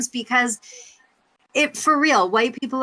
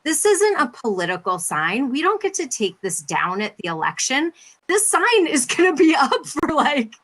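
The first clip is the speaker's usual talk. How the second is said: higher, worked-up imitation of a husband's protest; imitated huffy complaint, pitched up; 8 semitones higher than usual. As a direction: voice a mock-indignant husband making his case. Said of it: "my husband was kinda huffy about it".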